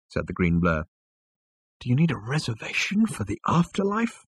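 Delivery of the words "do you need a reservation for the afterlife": high, prim, disdainful waiter; snooty waiter voice. Acted. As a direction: ask like a sniffy head waiter. Green blur waiter asks.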